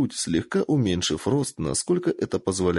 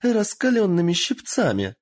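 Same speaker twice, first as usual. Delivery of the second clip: shouted order; 11 semitones higher than usual. Acted. Lord demanding hot tongs for the captive, gleeful shout. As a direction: call for the hot tongs eagerly. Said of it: "выкрикнул заинтересованный Юидай".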